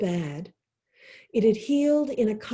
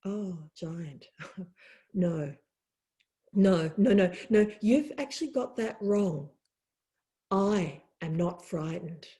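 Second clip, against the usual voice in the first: calm, patient deer gently correcting the giant; 4 semitones lower than usual. Acted. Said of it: "the deer looked at him calmly and said".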